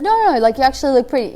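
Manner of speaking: eager, earnest reassurance; insistent compliment. Retold or imitated. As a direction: insist she really is pretty. Husband insisting she is pretty.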